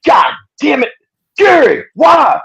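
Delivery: high, wailing cry of despair, mock anguish; imitating a father's high anguished shout. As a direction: wail his name like a heartbroken father. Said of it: "you hear him go".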